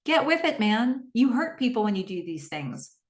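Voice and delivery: imitated scolding, starting high then settling; mock telling-off with a high opening; chastising. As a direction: tell him off on someone else's behalf. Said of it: "it's like chastising Joe to say".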